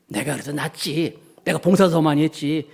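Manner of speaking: lightly acted self-satisfied comparing; smug superiority. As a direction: count off your merits, feeling superior. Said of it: "이런 우월감". (은근히 우월감 섞인 말투)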